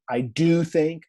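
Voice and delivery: "do" stressed as an emphatic present. Shown as a demonstration. Teacher showing the emphatic present, "do" stressed. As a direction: lean firmly on "do". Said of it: "Could be called a present emphatic".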